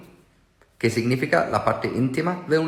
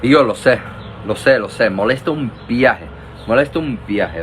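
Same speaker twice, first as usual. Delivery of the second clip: loud; 4 dB louder than usual. Real, not acted. Emphatic loud agreement.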